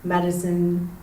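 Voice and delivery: measured poem delivery, pausing between phrases; poetry reading. Acted. Local poet reading a neighborhood poem to an audience, poetry reading. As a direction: read it as a poem, weighing each image. Reads own poem aloud.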